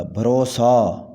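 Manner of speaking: بھروسہ with a long final aa: bharo-saa; correct pronunciation. Shown as a demonstration. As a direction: draw out the last vowel of بھروسہ. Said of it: "سین کے بعد الف آئے گا". (بھروسہ کا صحیح تلفظ، سین کے بعد الف)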